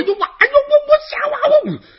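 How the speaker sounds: loud, high jumbled shouting; five brothers bellow over each other; brothers yelling together. Acted. Five sons bellowing at once to their father, loud high yelling. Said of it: "异口同声说".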